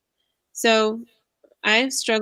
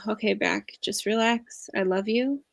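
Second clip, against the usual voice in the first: soothing self-talk. Shown as a demonstration. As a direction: coax the back to relax, tenderly. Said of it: "as a demonstration to you".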